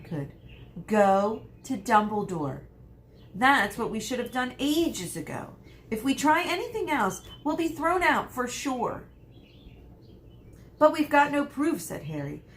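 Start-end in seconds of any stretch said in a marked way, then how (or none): 0.9-9.0 put-on high, louder, urgent girl's voice; insistent Hermione. A narrator's reading. 10.8-11.8 Harry. A narrator's reading. Harry arguing.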